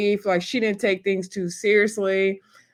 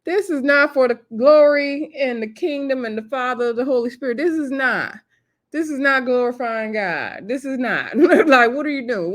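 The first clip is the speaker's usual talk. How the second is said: mock scolding; 5 semitones higher, 3 dB louder than usual. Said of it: "And I was like".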